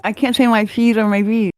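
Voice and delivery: lip-numb speech, P softened to F; paralyzed lips. Real, not acted. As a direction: struggle to form P with frozen lips. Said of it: "can't talk 'cause my lips are paralyzed".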